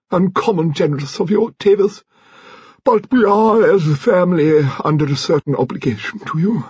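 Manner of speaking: high-pitched, declamatory grande dame; imperious old-guard lady. A narrator's reading. Lady Lacklander confessing on behalf of her husband, imperious.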